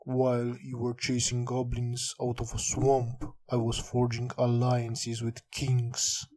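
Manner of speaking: measured, understated villain speech; lightly voiced villain. Villain belittling the players' victories, measured and lightly voiced. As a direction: belittle them evenly, a hint of villain. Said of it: "Instead of the villain saying".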